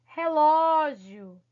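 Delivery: "relógio" stretched slowly, loud open Ó; stress on LÓ. Shown as a demonstration. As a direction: punch and lengthen the LÓ in "relógio". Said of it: "tem aí o acento agudo no O". ("relógio" com o LÓ forte, aberto e alongado)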